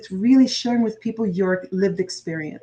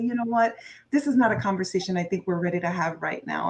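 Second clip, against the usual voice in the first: loving boundary; 3 semitones lower than usual. Shown as a demonstration. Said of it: "put a loving boundary and say".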